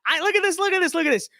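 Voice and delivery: high, gushing mock tearfulness. Vlogger mocks a gushing liberal tweet, high mock sobbing. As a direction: overdo the sentiment, mock crying.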